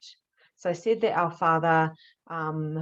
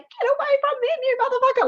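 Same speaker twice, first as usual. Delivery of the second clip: much higher, louder, fierce yell; furious shout; 6 dB louder than usual. Retold or imitated. Defending husband and daughter from the dark figure, a fierce high yell. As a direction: scream at the thing to protect your family. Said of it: "I was freaking out".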